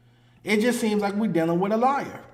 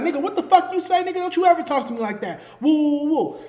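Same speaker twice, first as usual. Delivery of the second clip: angry comeback; 5 semitones higher, faster than usual. Retold or imitated. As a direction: bristle back at the insult, pitch up. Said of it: "And he'd be like".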